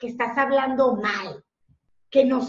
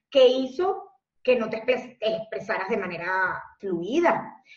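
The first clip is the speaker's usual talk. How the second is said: stumbling over a word mid-sentence; tongue-tied. Real, not acted. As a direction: trip on the word, then restart. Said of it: "se me acaba de enredar la lengua".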